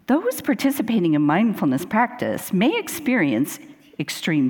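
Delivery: announcer reading drug side effects; mock commercial voiceover. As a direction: list side effects like an ad disclaimer, crisply phrased. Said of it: "a mock voiceover from, uh, from, like, a commercial".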